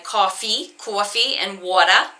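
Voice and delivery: demonstrating New York vowels in coffee and water; New York accent. Shown as a demonstration. Teacher showing how New Yorkers say things, New York accent. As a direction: lean into New York AW sounds. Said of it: "in New York".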